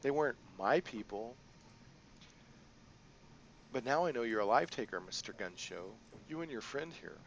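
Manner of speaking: sing-song. Acted. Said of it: "her voice sing-song".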